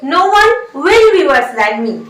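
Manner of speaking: very slow, word by word dictation; slow model sentence. Shown as a demonstration. Teacher dictates the English sentence very slowly. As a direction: spell it out slowly for the class. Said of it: "आप बोलिए".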